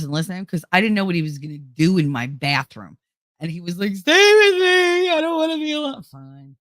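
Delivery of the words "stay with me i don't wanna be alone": needy high friend. Retold or imitated.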